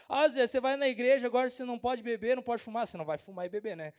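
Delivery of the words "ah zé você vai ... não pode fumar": mock quote. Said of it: "Mas você vai falar".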